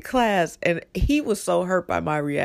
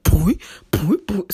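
imitated boing; 3 semitones higher, 4 dB louder, slower than usual. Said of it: "it was like".

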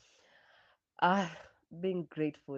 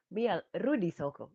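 mock exclamation; 5 semitones higher, 8 dB louder than usual. Mocking the phrase Rudi Soko.

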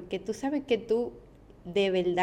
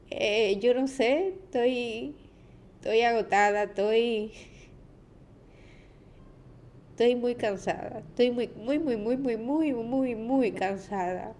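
exhausted; 2 semitones higher than usual. Real, not acted. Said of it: "estoy así como muy cansada".

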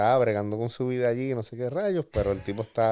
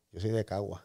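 retold hushed confession, a little softer; said softly; 2 semitones lower, 6 dB quieter than usual. Telling the guest he is from Cagua, quietly. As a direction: lean in and drop the voice for the secret. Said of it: "me dice bajito".

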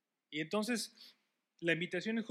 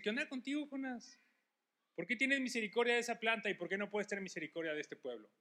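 a light, higher mock rebuke from God; God questioning Jonah; 5 semitones higher than usual. God challenging the angry Jonah, higher and lightly voiced. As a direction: voice God gently scolding Jonah, pitched up.

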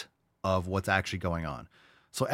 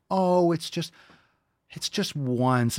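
drawn-out, high mimicry of a persuader; mock coaxing; 7 semitones higher, slower than usual. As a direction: wheedle slowly, mocking the excuse. Mimics passive-aggressive persuaders.

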